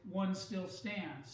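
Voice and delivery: "one still stands." slowed right down, "one" leaned on; stressed ending. Shown as a demonstration. Teacher pointing her class to the main clause, slowly stressing "one still stands.". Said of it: "So the emphasis in this sentence is at the end".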